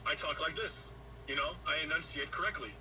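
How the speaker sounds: white American accent, carefully enunciated; enunciated white professional accent for interviews; white-sounding accent. Shown as a demonstration. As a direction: switch into a correct, formal white-American voice. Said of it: "I go full white".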